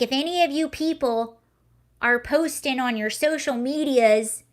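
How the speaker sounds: retold quote in a light Southern accent. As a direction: put on a slight Southern twang. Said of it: "I'm doing a Southern accent".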